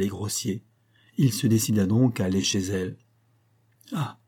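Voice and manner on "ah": slow, high-pitched cry of dismay; a startled exclamation at the door; upset servant crying out. A narrator's reading. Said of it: "s'écria madame Amédée".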